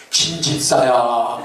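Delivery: low, slow godly call. Retold or imitated. God answering the deacon, low slow solemn call. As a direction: speak as God from above. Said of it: "하나님이 나타나셔서".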